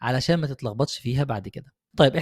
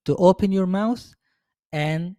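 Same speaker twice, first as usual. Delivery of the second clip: speak up demo; 3 semitones higher, much slower than usual. Shown as a demonstration. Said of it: "تتكلم بصوت مسموع".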